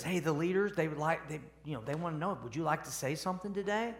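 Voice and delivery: softened, confidential undertone; acted hushed aside, voice dropped soft; imitated whisper. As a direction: quietly pass on a discreet request. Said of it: "whispers in their ear and says".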